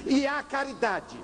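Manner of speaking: drawn-out high reproach; reproachful plea. Retold or imitated. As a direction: press the point of charity. Father repeats appeal.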